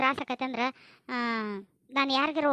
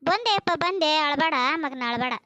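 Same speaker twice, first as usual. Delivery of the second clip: calling out; 3 semitones higher, 5 dB louder than usual. Acted. Mother calling to crying child.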